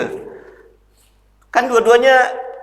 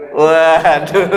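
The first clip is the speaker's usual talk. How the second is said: surprised waduh. Acted. Hearing Hotman Paris is calling.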